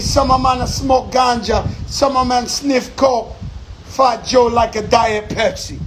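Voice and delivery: an amateur's put-on Jamaican patois; hammed-up patois, knowingly bad. A rapper joking with island friends in clumsy Jamaican patois. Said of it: "I know I got the worst patois voice".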